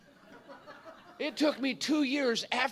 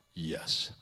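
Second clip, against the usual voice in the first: lifeless Christian; 4 dB quieter than usual. Retold or imitated. Preacher mocks churchgoers answering with dead, lifeless voice. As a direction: drop way down into a dead, toneless yes. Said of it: "it's death personified".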